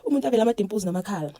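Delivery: excited nurse. Retold or imitated. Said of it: "He's like".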